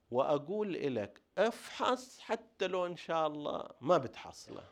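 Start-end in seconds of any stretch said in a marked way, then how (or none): 1.4-4.6 a sharp order, pitched much higher; mock lawgiver's command. Teacher voicing a lawgiver ordering the search, mock command. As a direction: bark it like a lawgiver laying down a rule. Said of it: "أن أنا أجي كمشرع".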